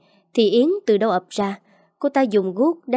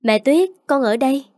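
put-on a child calling out to mom, bright and higher; cheerful child calling; 4 semitones higher, 4 dB louder than usual. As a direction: call out happily like a small boy spotting his mother. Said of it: "cười tươi gọi". (giọng trẻ con gọi mẹ vui mừng)

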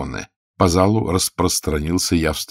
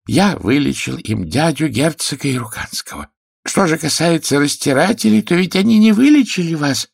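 rising, louder proud claim; proud healer; 10 semitones higher, 5 dB louder than usual. A narrator's reading. Healer proudly defending his cure to the king. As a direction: draw yourself up and boast. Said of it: "гордо выпрямившись".

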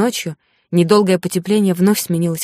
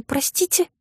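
indignant surprise; 11 semitones higher, 5 dB quieter than usual. Acted. Heroine indignant at remark.

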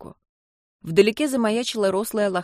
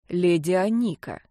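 very serious. Acted. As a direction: repeat it with mock solemnity. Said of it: "со всей серьёзностью повторил Чип".

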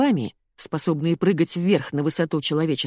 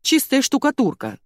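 insistent plea; 8 semitones higher, 4 dB louder than usual. A narrator's reading. Тёма pleads.

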